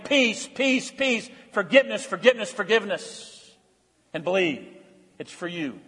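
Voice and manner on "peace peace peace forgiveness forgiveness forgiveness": God's peace. Acted. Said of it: "And God saying".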